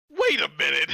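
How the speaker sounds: loud, indignant double take; loud disbelief. Acted. Brewmaster eyeing his supposed half-elf child, loud disbelief. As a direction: call it out, suddenly suspicious.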